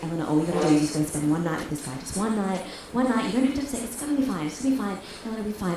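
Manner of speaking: softly talking herself into it; hushed, hurried pep talk to yourself; reassuring self-talk. Retold or imitated.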